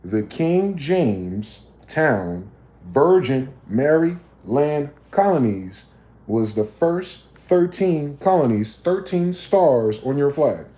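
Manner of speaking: drawn-out emphatic lecture; spelled out slowly. Shown as a demonstration. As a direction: spell it out word by word for the slow ones. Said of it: "One more time for anyone who's confused".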